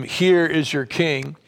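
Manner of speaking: slow, resigned giving-up tone; weary, fed up. Retold or imitated. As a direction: say it like you've given up, slowly. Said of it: "He's frustrated".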